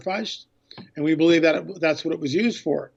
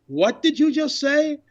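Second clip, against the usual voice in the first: higher, slower, drawn-out disbelief; stunned disbelief; 9 semitones higher than usual. Retold or imitated. Filmmaker repeating his shocked question to the guide, slow and incredulous. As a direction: let the question hang like you can't believe it. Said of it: "And I go".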